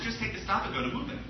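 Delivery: lightly voiced mother giving easy directions; a hint of a breezy mom; mom's voice. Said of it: "So my mom says".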